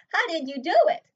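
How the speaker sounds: put-on awed child asking her mother; amazed.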